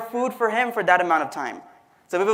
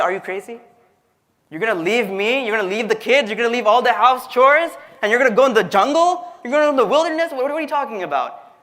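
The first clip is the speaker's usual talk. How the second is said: mildly hammed-up spousal protest; incredulous wife. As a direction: imitate a disbelieving wife piling up complaints. Wife scolding husband leaving for jungle.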